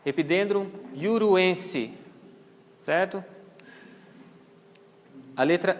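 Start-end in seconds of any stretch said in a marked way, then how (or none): 0.9-1.9 "iuruense" starting with an I glide. Shown as a demonstration. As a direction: slowly sound out "iuruense" with I for J. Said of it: "equivale ao som da vogal I". ("iuruense" com J soando como I)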